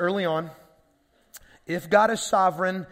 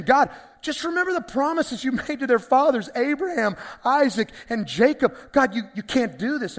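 urgent pleading; 4 semitones higher, 4 dB louder than usual. Retold or imitated. Moses pleads with God.

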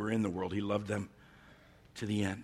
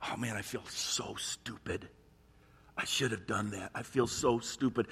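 mock embarrassment. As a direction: sound like you let yourself down. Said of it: "Some of them were like".

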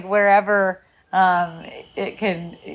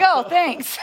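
laughing thanks; 7 semitones higher than usual. Retold or imitated. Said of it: "And I'm like".

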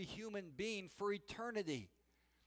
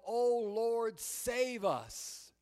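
retold yell; 3 semitones higher, 3 dB louder, much slower than usual. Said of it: "He's watching them yell".

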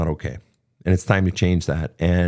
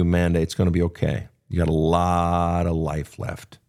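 reassuring; 3 semitones lower than usual. Retold or imitated. Older listeners comforting a young single woman, warm reassurance. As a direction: comfort them like a verbal hug. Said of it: "they're giving you a hug right now".

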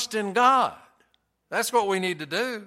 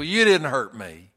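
mock macho bravado; 4 dB louder than usual. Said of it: "by his look, he would say".

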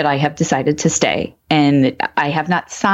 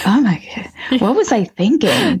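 higher, mock-horrified oh my God; lightly dramatized embarrassment; mock dismay; 6 semitones higher than usual. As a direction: cringe at your old self. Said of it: "I'm like".

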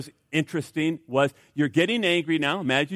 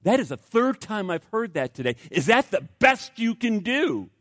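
rude taunt; 5 semitones higher than usual. Retold or imitated. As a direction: sneer it like a rude hotline worker. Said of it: "kind of rude comments like".

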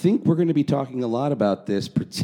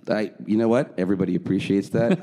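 ordinary delivery

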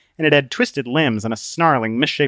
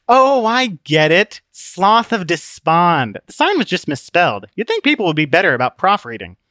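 Book, realizing; 6 semitones higher, 5 dB louder than usual. Acted. Book looking at the sloth with sudden recognition, realizing.

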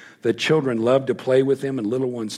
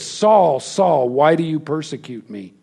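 voice of God calling out; 4 semitones higher, 6 dB louder than usual. Retold or imitated. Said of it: "the voice says".

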